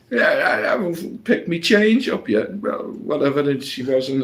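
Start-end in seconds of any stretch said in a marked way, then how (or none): 0.1-2.6 mock angry. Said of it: "kicking off".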